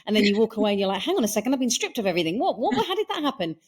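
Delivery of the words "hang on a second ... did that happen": dawning shock. Retold or imitated. Victim realizing they were robbed.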